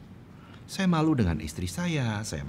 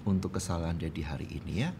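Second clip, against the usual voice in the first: low, subdued retold apology; permintaan maaf ayah; 4 semitones lower, 3 dB quieter than usual. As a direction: apologise quietly to your child. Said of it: "saya katakan kepada dia". (meminta maaf dengan suara rendah dan lembut)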